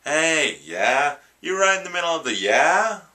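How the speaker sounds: quoted movie line. Retold or imitated. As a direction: shout it up high like a favourite cartoon bit. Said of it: "I still quote that all the time".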